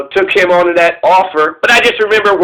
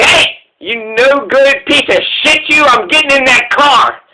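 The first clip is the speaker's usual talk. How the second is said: slow, mock-gruff order from the dog; a lightly voiced dog bossing her around; dog's rude demand; 4 semitones higher than usual. The dog telling the ex to stop the car, mock gruff.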